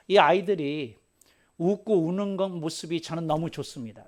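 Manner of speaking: ordinary talk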